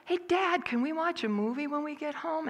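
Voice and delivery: imitating a little boy, high and light; high-pitched small-boy voice. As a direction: pipe up like a kid asking Dad. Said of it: "listening to the little boy go".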